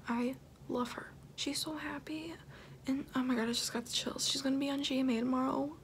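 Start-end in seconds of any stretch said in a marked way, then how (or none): 0.1-2.3 soft swoon. Real, not acted. Fan sighing softly about her idol. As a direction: breathe it out, starstruck. Whispering adoration.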